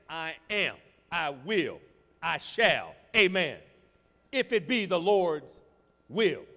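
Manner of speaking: "I am, I will, I shall" rising to a loud, firm declaration; confident declaration. Shown as a demonstration. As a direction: declare it with growing faith.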